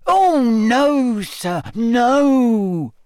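earnest elf insisting; serious elf. Acted. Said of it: "looking suddenly serious".

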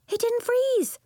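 high, loud joyful shout; a girl yelling in triumph; excited yell. A narrator's reading. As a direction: cry it out in delight. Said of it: "yelled Nori".

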